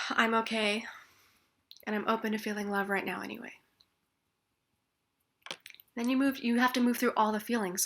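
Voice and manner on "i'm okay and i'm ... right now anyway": calm. Shown as a demonstration. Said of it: "switch to well-being".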